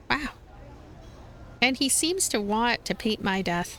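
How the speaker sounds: ordinary talk, nothing marked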